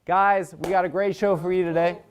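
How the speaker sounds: monologue host read. Acted. Host opening the show with a jockey item, monologue read. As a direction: show host's scripted news-joke delivery.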